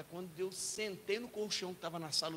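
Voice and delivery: ordinary talk, nothing marked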